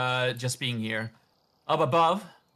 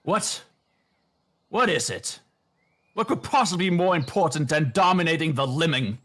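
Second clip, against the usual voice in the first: cultist voice; 3 semitones higher than usual. Acted. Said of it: "And the cultist answers".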